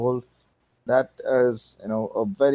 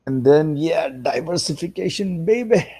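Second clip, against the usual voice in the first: excited; 7 semitones higher, 5 dB louder than usual. Real, not acted. Cheering his own gains.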